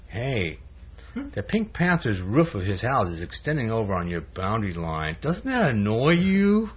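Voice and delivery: lightly voiced insinuating devil; devil's voice. Devil goading Harry about the boundary line, devil's voice. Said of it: "the devil goes over and says".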